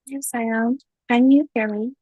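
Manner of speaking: congested voice from a cold; stuffy nose. Real, not acted. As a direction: speak through a blocked nose. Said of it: "I have a cold".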